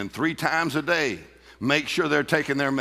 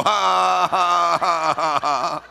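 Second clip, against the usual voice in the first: loud scornful ha ha ha; mocking laugh; 3 semitones higher, 5 dB louder, much slower than usual. Preacher laughing at the devil's lies. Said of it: "You go".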